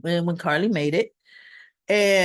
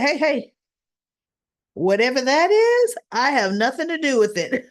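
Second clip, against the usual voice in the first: raised, quick hands-up denial; defensive protest; 5 semitones higher, 4 dB louder than usual. Retold or imitated. Molly waves off the summons, defensively protesting. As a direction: insist you have nothing to do with it. Molly denies any part in it.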